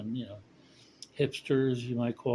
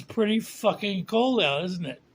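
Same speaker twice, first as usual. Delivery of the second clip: higher, louder, slow put-on old lady's retort; tough old lady; 9 semitones higher, 5 dB louder than usual. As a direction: hand it back to him in the old lady's voice.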